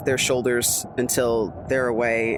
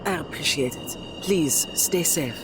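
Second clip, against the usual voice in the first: put-on French accent; 3 semitones higher than usual. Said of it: "leans into that accent a little bit more".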